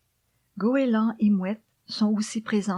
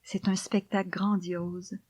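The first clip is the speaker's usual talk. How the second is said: poem recitation. Acted. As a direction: read the poem gently, almost whispered.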